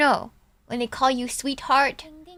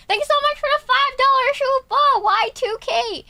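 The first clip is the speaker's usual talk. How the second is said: higher, fast, louder thanks; excited thanks; 12 semitones higher, 4 dB louder than usual. Real, not acted. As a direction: rattle off gushing thanks.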